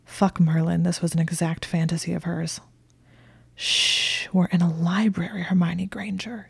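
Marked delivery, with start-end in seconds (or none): 3.6-6.5 shushing whisper; teasing hush, close to her ear. Acted. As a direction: whisper it so no one in the library hears.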